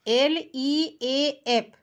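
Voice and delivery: letters spelt very slowly; teacher spelling slowly for children. Shown as a demonstration. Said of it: "spelling leaf for children".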